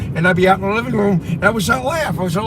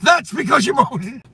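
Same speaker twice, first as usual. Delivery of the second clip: higher, slow stern retort; father scolding; 5 semitones higher, slower than usual. Retold or imitated. Father blaming his son for the belt hit, stern. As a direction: blame him like a strict dad.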